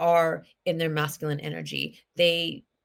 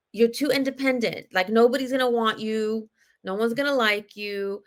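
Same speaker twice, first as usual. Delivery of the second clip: a hint of a scolding mother, a bit higher and louder; mom's scolding; 4 semitones higher, 4 dB louder than usual. A daughter retelling her mother's warning, in mild mock scolding. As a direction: lightly mimic mom's warning. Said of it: "my mom would tell me".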